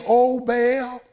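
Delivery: slow, drawn-out plea to an idol; pleading to Baal. Retold or imitated. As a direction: lightly mimic prophets begging their god. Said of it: "they were saying".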